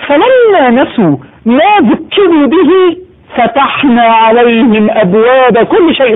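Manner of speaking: slow chanted recitation, drawn out; Quranic recitation. Acted. Preacher reciting a verse to the congregation, slow and chanted.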